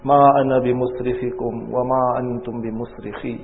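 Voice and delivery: very fast recited Arabic verse; Quran recitation. Acted. Preacher reciting verse to congregation, fast. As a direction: run the verse off quickly.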